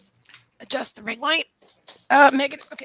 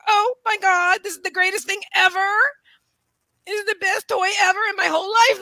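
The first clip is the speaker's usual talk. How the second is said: higher, gushing voice for the happy dog; voicing a thrilled dog; 5 semitones higher, 5 dB louder than usual. Owner speaks for dog with new toy, overjoyed. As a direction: gush as the dog would, louder and stretched. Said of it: "She's like".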